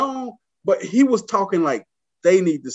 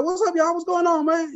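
casual greeting; 12 semitones higher than usual. Retold or imitated. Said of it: "And I was like".

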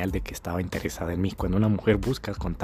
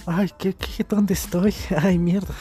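higher, slow, melting with delight; hammed-up swoon at her French accent; mock swooning; 5 semitones higher, slower than usual. Guy melting over a French accent, mock swoon. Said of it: "con ese acentico francés en español".

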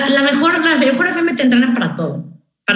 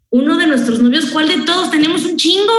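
cheeky boast; 5 semitones higher than usual. Retold or imitated. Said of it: "le digo a la chava".

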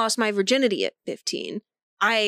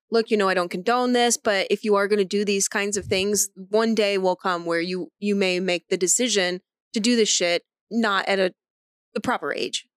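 lower, reasoned heart-to-heart tone; level with your kid, understated and sincere; measured parental talk; 4 semitones lower than usual. Retold or imitated. Mom rehearsing a talk with her teenage son, measured sincerity.

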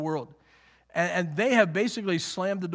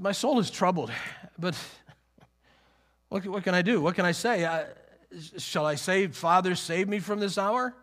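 touch of rhetorical sarcasm; sarcastic tone. Acted. Preacher trying out the tone Jesus may have used, mildly sarcastic. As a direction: voice the questions with mild irony. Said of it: "in the sarcasm or the, the tone in which Jesus".

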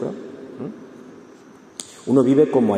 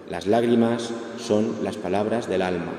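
"Las lágrimas son las palabras del alma" stretched out slowly, each word weighed; slow emphatic repeat; slower than usual. Shown as a demonstration. The counsellor repeats the maxim to grieving listeners, slow and solemn.

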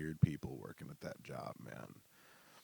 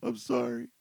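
cowed whisper; 3 dB louder than usual. Retold or imitated. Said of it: "And I'm just like".

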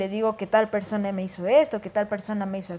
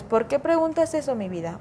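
gentle asking; 3 semitones higher than usual. Retold or imitated. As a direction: ask it calmly, tenderly. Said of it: "la forma en cómo hacerlo". (padre que pregunta con calma y cariño, terminando suave en mi vida)

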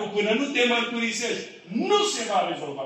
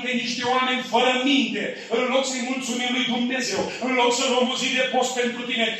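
acted confession; 5 semitones higher than usual. Preacher voicing a confession.

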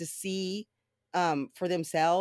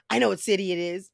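insisting, louder and more heated; the scammer digs in, raising his voice; mild mock anger; 3 semitones higher, 5 dB louder than usual. Telemarketer insisting, getting angrier.

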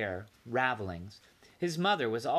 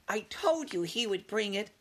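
boasting; 10 semitones higher than usual. Acted. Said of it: "Ralph could not help boasting".

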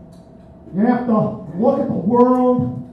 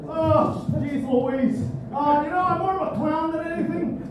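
wacky clown; 3 dB quieter than usual. Retold or imitated. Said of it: "you also got the wacky guy".

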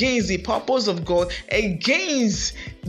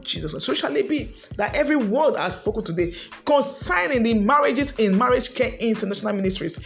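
rising, intense praying at full force; fervent prayer. Acted. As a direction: pray it out over the congregation, building. Leads a prayer for marriages.

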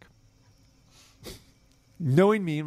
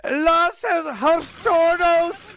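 high, slow called-out Spanish; mock street shout, drawn out; 10 semitones higher, 4 dB louder, much slower than usual. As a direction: call it out across the street. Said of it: "this lady starts shouting out".

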